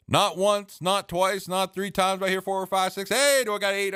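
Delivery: bad hammed-up auctioneer patter. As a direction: count up the bids like an auctioneer. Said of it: "I'm horrible at an auctioneer voice".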